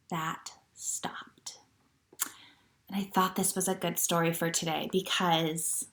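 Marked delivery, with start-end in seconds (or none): 0.1-1.6 whispered title. Acted. Teacher whispering book title to children. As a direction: whisper it softly.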